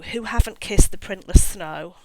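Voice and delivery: spoken, not sung, like a poem; a lyric recited as verse; reciting song lyrics. Shown as a demonstration. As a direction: read the lyrics out with feeling. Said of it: "but the words go".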